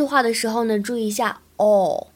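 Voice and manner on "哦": "哦" held long, made further back in the mouth; long vowel. Shown as a demonstration. Teacher shows learners the sound, "哦" as a long back vowel. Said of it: "长元音的哦".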